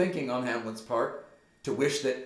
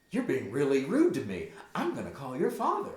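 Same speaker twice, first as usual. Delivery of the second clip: lightly voiced exasperated mom, higher pitch; pulling a mom; 4 semitones higher, faster than usual. Mom threatens to call your father, raised-pitch mild scolding. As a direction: warn your child as a fed-up mom. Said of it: "she's pulling a mom here for sure".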